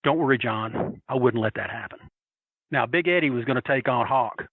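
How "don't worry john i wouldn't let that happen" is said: retold reassurance. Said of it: "he looked at me and he goes".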